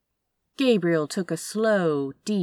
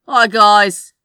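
charming smile; 4 semitones higher, 15 dB louder than usual. Acted. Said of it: "with a wide, charming smile".

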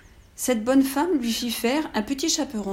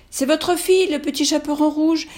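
put-on little girl voice; 6 semitones higher, 5 dB louder than usual. Girl at the door.

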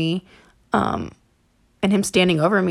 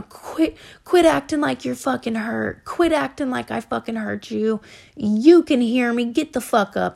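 higher-pitched mock yell, not full volume; retold angry screaming; 4 semitones higher than usual. Boyfriend screaming at her to get up, imitated angry yell. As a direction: imitate his angry demands in a raised pitch. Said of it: "all I heard was him screaming".

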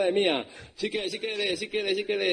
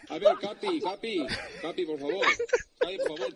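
pleading; 11 semitones higher than usual. Acted. Pleading high to Capi.

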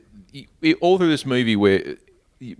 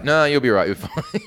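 dismissive reassurance; 5 semitones higher than usual. Retold or imitated.

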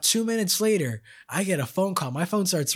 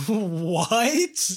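higher, slow, stunned disbelief; slow, raised mock disbelief; retold shock; 3 semitones higher, much slower than usual. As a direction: relive hearing your friend died. Retelling shocked reaction to news.

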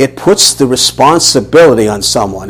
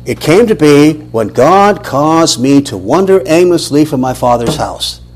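slow quoted verse; 2 semitones higher, slower than usual. Retold or imitated. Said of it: "what is Abraham saying here?".

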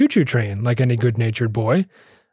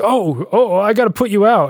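alarmed retold cry; 8 semitones higher, 3 dB louder than usual. Hallucinating waiter on fire, calls out.

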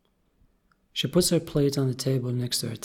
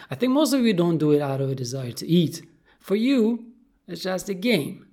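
higher, louder accusing fish voice; indignant goldfish; 3 semitones higher, 5 dB louder than usual. Acted. Goldie accusing the cat who plays with fish, indignant.

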